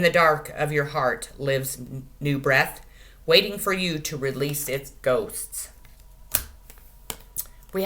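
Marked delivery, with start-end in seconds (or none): none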